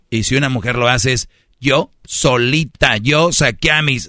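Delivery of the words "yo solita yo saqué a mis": slow proud boast. Retold or imitated. Mocking women bragging.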